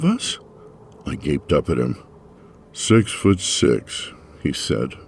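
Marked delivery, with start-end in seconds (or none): 2.7-4.1 slow, even and deadpan; impassive. Acted. The officer answering her unasked question, impassive and slow. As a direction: state it flatly, no emotion. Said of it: "voice impassive".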